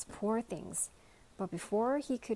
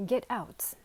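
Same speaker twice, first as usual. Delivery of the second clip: cried out; 3 semitones higher, 5 dB louder than usual. Acted. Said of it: "cried the lunchbox".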